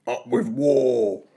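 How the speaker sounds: a lightly growled battle cry; understated fierce chant; mild T-rex shout. A narrator's reading. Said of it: "they shouted".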